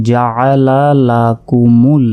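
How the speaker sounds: slow drawn-out recitation; recited slowly. Shown as a demonstration. Teacher joins the syllables for students, slow chant. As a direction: stretch each syllable like recitation.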